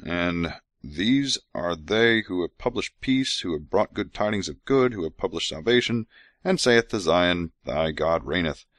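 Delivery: slow, solemn reading of scripture; measured scripture recital. Acted. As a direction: read it like holy writ. Reads scripture aloud.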